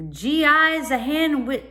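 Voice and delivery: put-on cockney boy. A narrator's reading.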